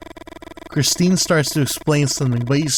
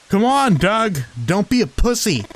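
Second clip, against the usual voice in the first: taunting call; 8 semitones higher than usual. Acted. Christine calling Doug across the bridge, high taunting call. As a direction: goad him from afar.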